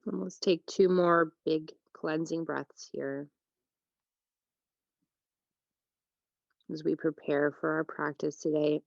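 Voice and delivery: unhurried yoga teacher with long pauses; calm, spacious meditation delivery; guided relaxation. Real, not acted. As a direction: guide them into rest, phrase by phrase. Leads a breathing meditation.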